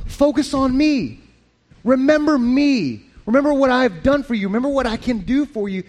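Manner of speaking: tender, pleading voice of Jesus; voicing Jesus. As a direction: coax them gently like a loving father. Pastor voicing Jesus comforting people.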